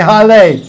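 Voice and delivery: "Hale" with an L in place of the R; Chinese pronunciation. Retold or imitated. Imitating chanters in China who have no R, "Hale" with an L. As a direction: say "Hale", L for R, stressed and falling. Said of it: "they can't say Hare".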